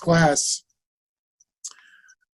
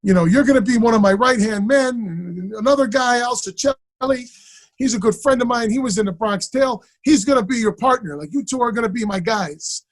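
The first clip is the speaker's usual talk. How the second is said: lightly imitated, higher-pitched voice; Chazz; 6 semitones higher than usual. Actor offering a student a part, lightly imitated higher. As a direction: lay out the plan in his raised voice. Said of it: "he goes".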